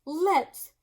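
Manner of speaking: high, loud, gushing hostess; Missus Moose voice. Acted. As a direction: gush at him, high and bright.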